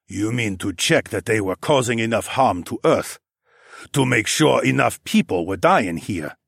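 lightly voiced accented character, accusing; stern questioner. Underground king challenges the alien's purpose, mildly accusing. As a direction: press the accusation in a measured voice.

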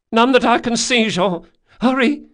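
put-on high, loud urgent boy; urgent boyish shout. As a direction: yell at him to hurry up. Boy urging Jean to hurry.

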